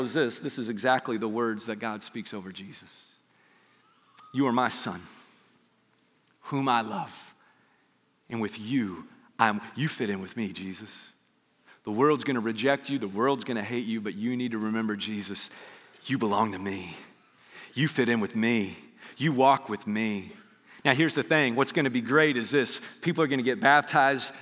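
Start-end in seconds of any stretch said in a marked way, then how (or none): 4.3-10.9 tender divine affirmation. Acted. God speaks over Jesus at baptism, tender affirmation. 11.8-20.3 low, unhurried divine reassurance; tender reassurance. Acted. God reassures Jesus the world will reject, tender reassurance.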